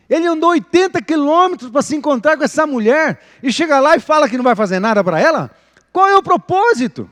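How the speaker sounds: high, loud rhetorical outburst; loud, disbelieving questions; incredulous questioning. Acted. Rhetorical challenge to the congregation.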